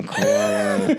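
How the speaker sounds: very high squeal of a mating koala; koala mating call. Retold or imitated. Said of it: "the speaker's koala impression".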